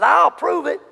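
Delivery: lightly acted eager "I'll prove it"; eager vow. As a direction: retell a young man's confident boast. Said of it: "I said".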